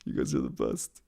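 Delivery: almost under the breath, moved; real emotion, dropping to a hush; emotional. Real, not acted. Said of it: "I get emotional thinking about it".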